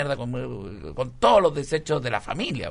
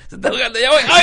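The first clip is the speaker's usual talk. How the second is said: in ice cold water; 10 semitones higher, 9 dB louder, faster than usual. Acted. Lifeguard jumping into icy sea.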